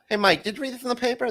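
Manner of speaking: fast, high Jay Leno headline voice. Acted. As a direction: do Leno's quick high setup. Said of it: "you're gonna read 'em as Jay Leno".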